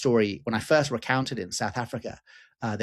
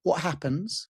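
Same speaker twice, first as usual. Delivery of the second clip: put-on whispering child; 5 semitones higher, slower than usual. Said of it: "he whispers something in my ear".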